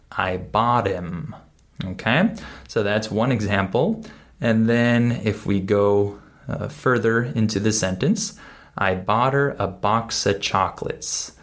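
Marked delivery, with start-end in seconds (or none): 0.1-1.3 slow "him" without its H; dropped H. Shown as a demonstration. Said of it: "I skip the H sound". 8.8-11.3 linked sentence, no H in "her", no F in "of"; reduced speech. Shown as a demonstration. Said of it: "I skipped over the F sound".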